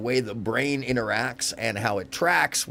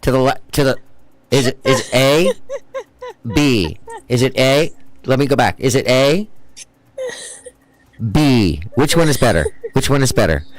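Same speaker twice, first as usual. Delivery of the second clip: louder, mock-earnest questioning; mock fumbling lover; 6 dB louder than usual. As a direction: play the clueless partner checking in. Mocking man as optometrist.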